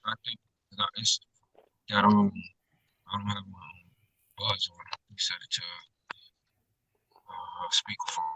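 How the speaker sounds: distant voice away from the phone mic; far from phone. Real, not acted. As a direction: speak from across the room, off mic. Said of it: "it just sounds like you're far away from the phone".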